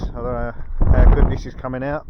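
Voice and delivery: windy outdoor recording; wind on mic. Real, not acted. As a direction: wind gusting over the mic. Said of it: "Excuse the wind noise".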